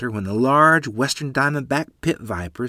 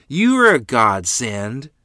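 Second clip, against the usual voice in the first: slow, relieved thanks; relieved sigh; 2 semitones higher, 6 dB louder, slower than usual. Acted. Mother thanking the neighbor, slow relieved voice. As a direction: let the relief pour out slowly. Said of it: "sighing at the same time in relief".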